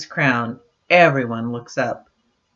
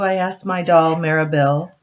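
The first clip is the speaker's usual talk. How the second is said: storybook reading voice; reading to children. A narrator's reading. Parent reading a book to daughters, gentle storybook voice. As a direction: read it like a bedtime picture book. Reads picture book aloud.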